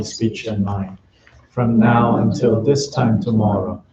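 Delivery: even, measured chant-like prayer reading; prayer recitation. Real, not acted. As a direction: recite the prayer steadily, line by line, on a level tone. Recites Buddhist prayers aloud.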